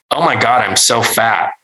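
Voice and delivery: a hammed-up whiny complaint; mock self-pity. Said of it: "in a way meant to elicit scoffs".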